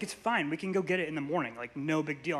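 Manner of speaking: put-on a mother breezily calming her kid; mom's soft, quick reassurance. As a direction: hurry through like an easygoing mom. Mom voiced, soft and fast.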